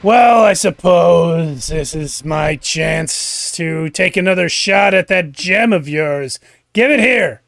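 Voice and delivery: loud villain voice, slow start building to a demand; Slug the Wizard. Acted. Wizard demanding the heroes' gem, loud villainous voice. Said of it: "appears Slug the Wizard".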